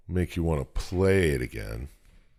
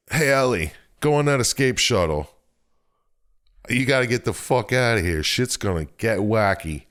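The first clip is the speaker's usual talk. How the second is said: higher, urgent mock hero voice, only lightly put on; lightly voiced Isaac; 5 semitones higher than usual. Host retelling Isaac sending Ellie away, lightly voiced urgency. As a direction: hurry her off like a half-hammed action hero.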